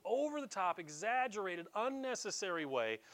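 "over-the-top" pitched high; exaggerated emphasis. Shown as a demonstration. Preacher describing Peter's outburst, "over-the-top" emphasised high.

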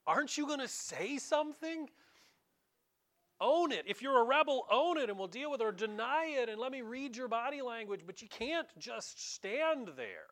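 exasperated Pilate. Retold or imitated. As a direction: demand he own it, frustrated. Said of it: "Pilate turns to him ... and says".

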